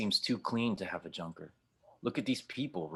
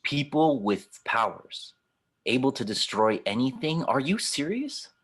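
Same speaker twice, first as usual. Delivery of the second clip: incredulous scoff; 4 semitones higher, 4 dB louder than usual. Acted. Scoffing at a fairy tale.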